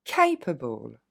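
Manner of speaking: capable in one go, weak ending; model pronunciation. Shown as a demonstration. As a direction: say capable whole, able unstressed. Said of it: "Encore une fois". (capable d'un seul coup)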